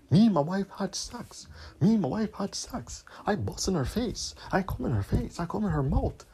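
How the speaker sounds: mocking singsong brag; mock bragging. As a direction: mimic someone boasting to everyone in a mocking lilt. Mocks old men bragging to the world.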